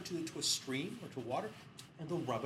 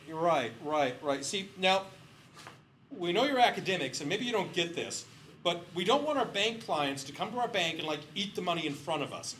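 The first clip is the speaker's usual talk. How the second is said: loud, condescending ad-man lecturing; imitating bank executive; 3 semitones higher, 7 dB louder than usual. Bank executive scolds the researchers, loudly condescending. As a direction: talk down to the academics, loud.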